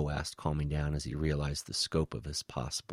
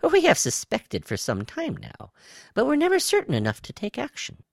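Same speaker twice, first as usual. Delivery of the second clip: very high, louder alien voice; high-pitched reptile; 8 dB louder than usual. A narrator's reading. Reptile tells Woe of its suspicions, high-pitched. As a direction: explain it in a high creature voice. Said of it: "A high-pitched voice came from his right".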